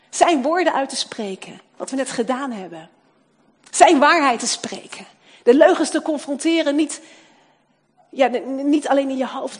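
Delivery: loud, urgent sermon push; preaching at full force. Acted. Preacher urging congregation to speak truth aloud, preaching loudly. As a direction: drive the command to speak truth.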